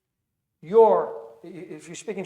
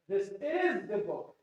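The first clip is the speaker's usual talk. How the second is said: IS stretched and raised in pitch; stress on IS; 2 semitones higher, slower than usual. Shown as a demonstration. Teacher showing students English emphasis, stress on IS. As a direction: lean slowly on the word "is". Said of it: "I'm emphasizing".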